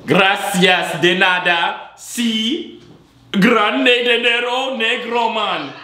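very high, slow mock Spanish; mock Spanish accent. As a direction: stretch out silly broken Spanish up high. Clowning in broken Spanish to stranger.

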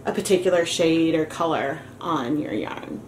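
muffled through a dust mask. Real, not acted. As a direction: speak from behind a dust mask. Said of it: "why I sound muffled".

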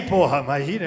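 usual speaking voice

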